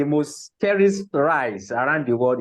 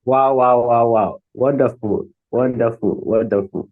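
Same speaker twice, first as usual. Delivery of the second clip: loud, delighted wows fading down; amazed wow; 3 semitones lower, 6 dB louder than usual. Real, not acted. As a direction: gush with real admiration. Host reacts to finished presentation.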